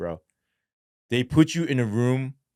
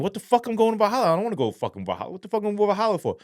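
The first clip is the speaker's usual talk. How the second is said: outraged protest; 11 semitones higher, much faster than usual. Retold or imitated. Protesting the transfer.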